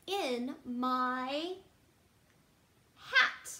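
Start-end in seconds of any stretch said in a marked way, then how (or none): 3.0-3.5 high sing-song hat. Acted. Reading to kids, rhyme word hat sung up high.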